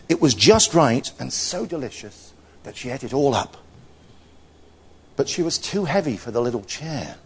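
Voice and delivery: expressive storytelling with lifted phrases; story narration. A narrator's reading. Telling Goldilocks to children, expressive story narration. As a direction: read it out as a children's tale.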